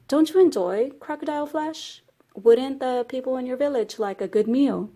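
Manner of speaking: high-pitched storybook rabbit tempting; coaxing suggestion. Acted. Rabbit slyly tempts the boy.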